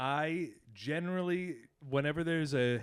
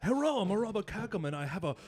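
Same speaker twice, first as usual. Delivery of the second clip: mock Asian accent; 6 semitones higher than usual. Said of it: "we're in the back doing an Asian voice".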